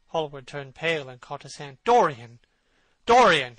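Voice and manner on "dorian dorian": loud anguished calling of the name; cried out. A narrator's reading. Basil cries out to his friend in alarm. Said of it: "he cried".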